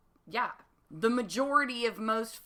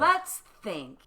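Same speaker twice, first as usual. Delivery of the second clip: bright, punchy cartoon host prompt; louder, like a kids' show host inviting viewers; Dora the Explorer voice; 6 dB louder than usual. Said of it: "My best Dora the Explorer voice".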